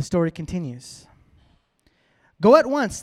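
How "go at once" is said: raised, louder commanding voice; royal command. A narrator's reading. The king orders Haman to go at once, commanding. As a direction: read it as a king's firm order. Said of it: "the king commanded".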